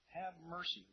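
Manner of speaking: mildly pleading, pitch lifted; a restrained echo of a beggar's plea; imploring. Acted. Preacher repeats the blind men's cry, mildly imploring. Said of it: "Again, this is imploring".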